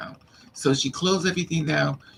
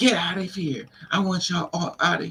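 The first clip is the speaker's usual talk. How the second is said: mock screaming in a woman's voice, faster; 4 semitones higher than usual. Retelling how a woman came out to the parking lot, imitating a woman screaming. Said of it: "she's screaming".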